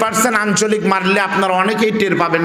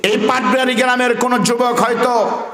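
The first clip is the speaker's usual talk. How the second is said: raised oration; 4 semitones higher than usual. Acted. A different raised speech.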